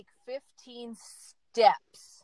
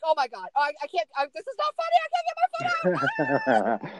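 retold panic; 4 semitones higher, 4 dB louder than usual. Stuck in snow, retelling panic.

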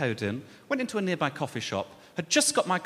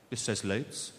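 put-on Brummie accent; 8 semitones lower, 6 dB quieter, slower than usual. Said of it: "she had a thick Brummie accent".

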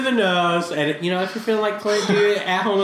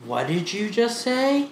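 retold puzzled question; 4 semitones higher, 3 dB quieter, slower than usual. Thai kids puzzled by fast English.

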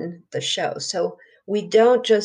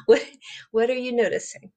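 spa voice; 3 semitones higher, faster than usual. Shown as a demonstration. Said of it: "In a spa voice".

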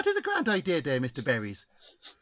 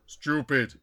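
caricatured spirit chief; 3 semitones lower than usual. Acted. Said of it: "Chief Hanging Berry, spirit guide".

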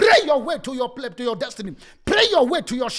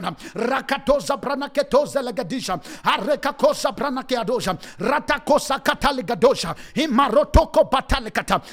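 speaking in tongues. Acted. Prays in tongues.

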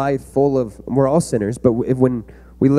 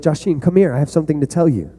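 a lightly higher, sweet coaxing call; coaxing uncle; 4 semitones higher than usual. Retold or imitated. Uncle coaxing his nephew Joshim to come close, lightly sweet. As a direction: lure the kid over with a fake-innocent sing-song. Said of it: "I'll be like".

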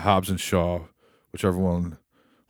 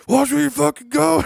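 put-on drunken yell; 6 dB louder than usual. Drunk Stone Cold yelling.

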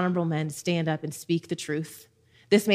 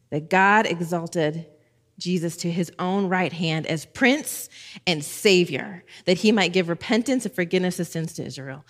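slow savoring reread. Shown as a demonstration. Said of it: "I love that".

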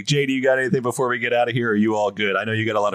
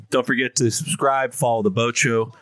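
movie trailer voice. Acted. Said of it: "Is that your trailer voice?".

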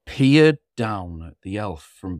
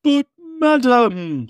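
slow, higher blustering Santa; 13 semitones higher, 5 dB louder, much slower than usual. Acted. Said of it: "Santa blustered".

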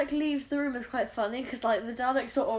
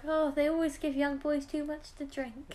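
maid; 3 semitones higher, 4 dB quieter, slower than usual. Retold or imitated. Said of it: "she was like".

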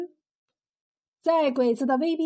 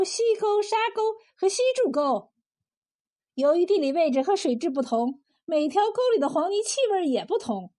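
lightly voiced proud woman cook, often higher-pitched; 柳三娘，自夸; 4 semitones higher than usual. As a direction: show off the famous recipe with relish. (绘声绘色地夸耀手艺)

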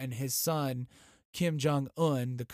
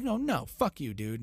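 mock defiant refusal; 2 semitones higher than usual. South Koreans voiced telling Kim off, brash mock defiance. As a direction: toss it off like a cocky dude.

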